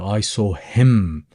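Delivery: "him" drawn out for emphasis; slow down and lean on "him"; emphatic, stretched-out "him"; stress on him. Shown as a demonstration. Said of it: "be a little bit more emphatic and emphasize".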